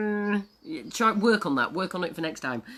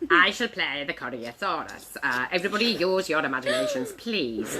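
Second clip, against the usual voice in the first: puppet announcing itself; 4 semitones lower than usual. Acted. Puppet announces its grand role.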